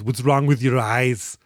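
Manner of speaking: lightly voiced robot, slow and deliberate; Terminator. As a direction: ask it slowly as a puzzled machine. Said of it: "the Terminator, or Termy, looks around".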